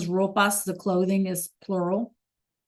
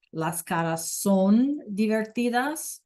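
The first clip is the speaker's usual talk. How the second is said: a little slower than normal, clear; slow repeat; slower than usual. Shown as a demonstration. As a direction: repeat it once more, slightly slowed.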